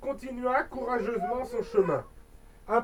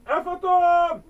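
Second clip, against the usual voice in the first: higher, louder panicked cry; frightened cry; 7 semitones higher, 7 dB louder, slower than usual. Acted. Boy crying out at the ghost, panicked. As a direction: blurt it out in fear. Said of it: "cria-t-il".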